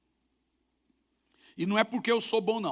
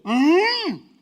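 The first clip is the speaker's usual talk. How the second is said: fake deaf huh; 9 semitones higher, 9 dB louder than usual. Homem fingindo ser surdo.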